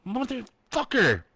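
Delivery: high, loud, drawn-out scream; screaming curse. A narrator's reading. Trapped woman screaming at the chained door. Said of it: "she screamed".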